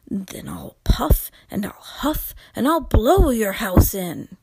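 loud, menacing wolf voice; big bad wolf threat.

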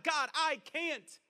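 slow, stretched admission of helplessness; crying out. Acted. Believer tells God they can't, crying out. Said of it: "when we tell God".

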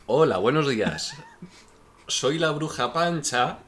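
witch voice holding back laughter; high slow voice fighting a giggle; stifled giggles. Acted. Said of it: "mi voz se parece mucho a la de Chencho cuando está aguantando la risa".

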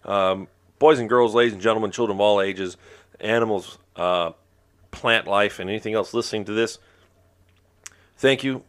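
ringmaster. Acted. Ringmaster style sign-off.

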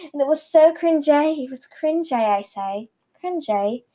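lightly put-on British accent; mock British accent. Teen podcaster slipping into silly talk, mock British accent. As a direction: play at a British accent, hammed-up. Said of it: "Why am I speaking this weird accent".

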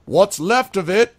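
high, loud, slow jeer from the crowd; a heckler mocking the mayor; heckle. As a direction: shout a jab at the mayor.

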